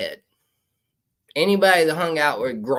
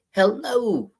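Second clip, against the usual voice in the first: spooky hello; 8 semitones higher than usual. Acted. Spooky greeting, far voice.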